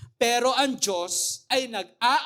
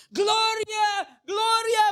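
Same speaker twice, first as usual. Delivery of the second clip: patient screaming a name; 11 semitones higher, slower than usual. Retold or imitated. Patient screaming a lost love's name. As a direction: call out the name like a madman. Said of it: "sumisigaw yung pasyente".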